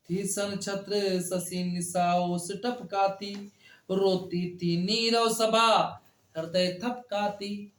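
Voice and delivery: slow, measured reading of verse; poem recitation. Acted. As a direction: recite the couplet slowly and solemnly. Teacher recites poem lines. (धीमी गति से कविता पाठ)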